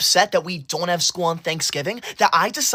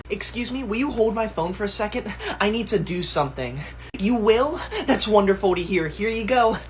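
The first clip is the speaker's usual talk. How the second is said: sly fake outrage; 3 semitones higher, 4 dB quieter than usual. Sneaky setup then fake outrage.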